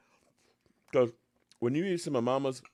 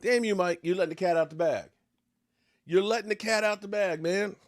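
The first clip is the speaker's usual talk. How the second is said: exasperated scolding; 5 semitones higher than usual. Real, not acted. Fan scolding coach Mike for the fake punt, exasperated.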